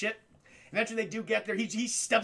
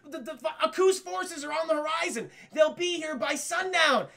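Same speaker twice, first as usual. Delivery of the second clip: breathless dog messenger; 7 semitones higher than usual. Retold or imitated. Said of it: "He's like".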